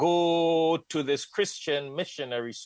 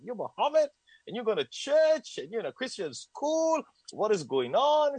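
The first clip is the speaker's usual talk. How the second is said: imitating missionaries; 11 semitones higher than usual. Missionaries at the door voiced.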